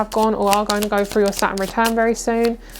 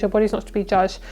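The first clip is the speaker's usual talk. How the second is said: fast, brisk repeat of the message; quick restatement; faster than usual. Shown as a demonstration. Reader briskly restates the message to viewers, fast. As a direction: rattle it off as a quick recap. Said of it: "What I'm hearing is".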